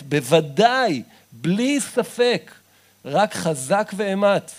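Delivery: loud, slow, insistent assurance; a preacher hammering the promise home; emphatic preaching. Acted. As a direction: drive home the certainty word by word. Assuring that God will answer.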